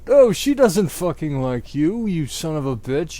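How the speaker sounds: loud angry yell; hammed-up angry yell. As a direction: yell it at Vampire. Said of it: "yelled Draco".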